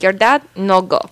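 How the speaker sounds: retold dentist in mock Spanish accent; light Spanish-accented English; attempted Spanish accent. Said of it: "like, a Spanish accent is".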